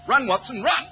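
high, loud call to run; urgent shout. Acted. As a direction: shout through the rain. Rain starts, urging Watson.

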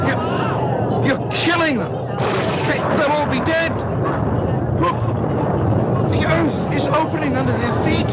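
very high, panicked cries; horrified. Acted. Boy watches the little people being swallowed by the earth, horrified. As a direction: cry out in helpless horror, halting between phrases.

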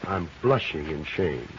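sarcastic. Acted. Sarcastic reply to cop.

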